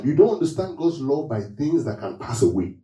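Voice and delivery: quotable preacher delivery; motivational speech. Real, not acted. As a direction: preach it like a motto. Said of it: "I sound so motivational today".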